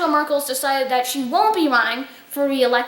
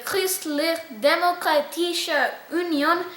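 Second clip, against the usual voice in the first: Christlich Demokratische Union said slowly in German with a slight French-tinged accent; a slow German attempt with a slightly Frenchish accent; 3 dB quieter, slower than usual. Shown as a demonstration. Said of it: "slightly Frenchish accent there".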